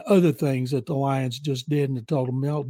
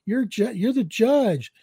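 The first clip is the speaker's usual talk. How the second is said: high, incredulous what-the-hell, then slowing down; baffled disbelief; 5 semitones higher, slower than usual. Retold or imitated. Retelling a stunned actor's reaction to the host, in incredulous disbelief. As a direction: act out a stunned guy who can't believe it.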